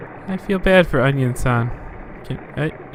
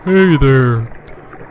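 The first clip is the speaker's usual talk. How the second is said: Elf voice; 4 dB louder than usual. Acted. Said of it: "she's supposed to have more of an anime voice than my, like, Norwal from Elf voice".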